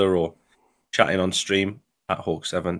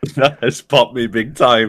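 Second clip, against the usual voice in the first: breaking character giggling; 3 semitones higher, 6 dB louder, slower than usual. Real, not acted. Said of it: "I'm gonna be corpsing already".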